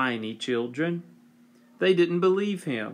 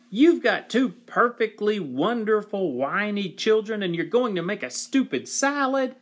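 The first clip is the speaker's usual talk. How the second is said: freaked out; 7 semitones higher than usual. Acted. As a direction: protest in total disbelief. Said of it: "totally freaked out".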